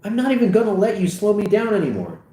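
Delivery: high, heated rant; exasperated, high-pitched tirade; indignant retort. Acted. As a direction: fire back, pitch way up. Acted quarrel, friend retorts.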